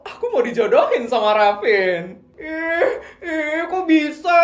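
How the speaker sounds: high, loud squeal of excitement; excited squealing. Acted. Friends squealing over Mika's matchmaking news, excited. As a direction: squeal like thrilled schoolgirls.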